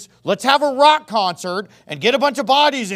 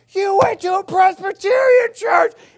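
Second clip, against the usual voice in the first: very high, shrill, accusing scream; 11 semitones higher than usual. Retelling a father's reaction to a Presbyterian youth group visit: retelling dad's screaming. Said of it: "he's screaming at me like".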